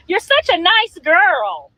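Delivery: mock sweet. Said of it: "Y'all wanted me to get on here and be like".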